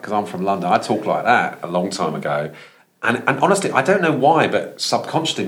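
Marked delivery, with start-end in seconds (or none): 0.0-2.5 light London accent demo; a hint of homegrown London accent. Shown as a demonstration. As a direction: lightly slip back into an old London accent. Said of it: "So I talked a bit like".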